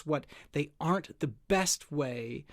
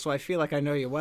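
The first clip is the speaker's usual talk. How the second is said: laughing; 6 dB louder, much faster than usual. Real, not acted. Laughing about phone calls.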